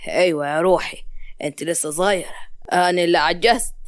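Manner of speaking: low-pitched, placating reassurance; soothing husband. Acted. Husband assures his wife she is still young, soothing.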